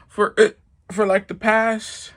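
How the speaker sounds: hiccups. Real, not acted. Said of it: "I'm hiccuping".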